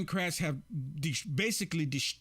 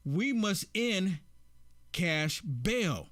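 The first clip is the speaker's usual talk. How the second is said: slow, deliberate read with pauses; emphatic quote reading; slower than usual. Acted. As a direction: read it out slowly, phrase by phrase. Reads out a tweet.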